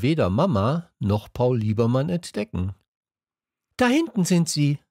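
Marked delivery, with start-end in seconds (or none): 3.8-4.8 higher calling voice. A narrator's reading. Girl calling to the class on the platform, raised. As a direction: call to the class across the crowd. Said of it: "rief dann aber Pink".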